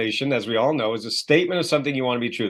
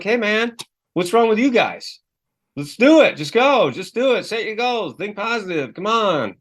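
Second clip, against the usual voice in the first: pushy guru; 7 semitones higher than usual. Retold or imitated. Mimicking a pushy self-help guru to his coaching clients, hyped and high. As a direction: pump them up like a pep-rally guru.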